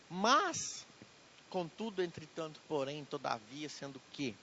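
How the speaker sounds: a jokey connective list that sinks to a mumble; comic fading list. Acted. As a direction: play up the pile of connectives as it fades. Joking string of connectives.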